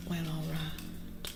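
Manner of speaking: slow, soft, drawn-out aside; hushed, slow retold reaction; quiet resigned acceptance. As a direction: draw it out softly, as if giving in. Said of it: "and I was like".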